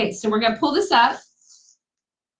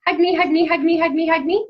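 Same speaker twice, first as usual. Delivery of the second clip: sing-song reading; 8 semitones higher, 3 dB louder, faster than usual. Pretend. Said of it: "look, it says".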